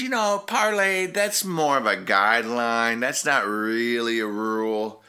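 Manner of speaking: lightly voiced pirate captain; imitated pirate captain. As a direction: play the captain brushing off a rule. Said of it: "he came over and he says".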